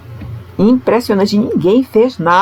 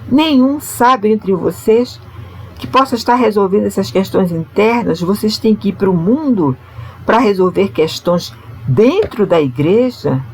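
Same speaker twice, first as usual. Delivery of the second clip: ironic; 5 semitones higher than usual. Retold or imitated. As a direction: voice the apostle's irony in a raised pitch. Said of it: "com um tom irônico".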